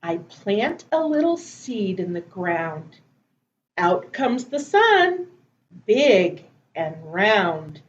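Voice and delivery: measured, phrase-by-phrase rhyme; drawn-out words with a pause after each phrase; children's poem recital. Acted. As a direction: recite a little action poem for small children.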